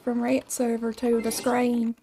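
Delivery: a light Southern accent, slow; slight southern drawl. Real, not acted. Streamer telling chat about the rat, light Southern accent. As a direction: lean lightly into Southern vowels. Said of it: "I don't know why I went southern there".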